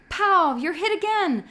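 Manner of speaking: loud, high playful yell. A narrator's reading. Asher yells at Jonas from behind the tree, loud and high. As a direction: call him out as shot in the game. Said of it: "Asher yelled".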